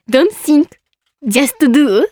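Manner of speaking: "Don't think, just do" in heavy Japanese katakana sounds; bad English pronunciation. Real, not acted. Host reading a star's English motto, "just do" badly pronounced in katakana. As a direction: say "think" as "shinku" and "just do" as "jasuto du". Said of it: "発音悪".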